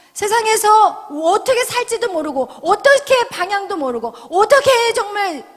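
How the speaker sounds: high, loud, urgent plea; impassioned preaching. Real, not acted. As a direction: cry out on behalf of lost people. Preacher passionately describes lost people. (높은 목소리로 절절하게 외치는 설교)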